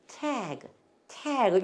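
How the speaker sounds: 태그 with t near Korean ㅌ, open "ae"; corrected English pronunciation. Shown as a demonstration. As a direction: say 태그 as English "tag". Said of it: "티귿에 가깝게".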